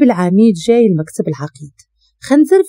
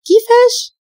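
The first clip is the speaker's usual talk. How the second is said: sharp, much higher shocked "كيفاش"; shocked question; slower than usual. A narrator's reading. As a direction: jolt up in disbelief. Brother hears of the arrest.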